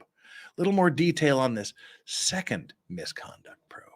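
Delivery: whisper. Real, not acted. Whispered aside.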